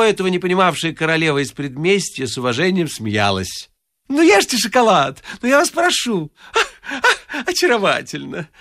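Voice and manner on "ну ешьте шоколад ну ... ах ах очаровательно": high, fluttering compliments; gushing flatterer. A narrator's reading. The wit raving over the suburban girl, high and gushing. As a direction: pour on the flattery, breathless with delight.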